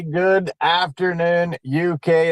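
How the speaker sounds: slow, lightly mimicked co-host's hello; Andrew Henderson. Host channels his co-presenter to greet the UK, playful imitation. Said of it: "as I channel my inner Andrew Henderson".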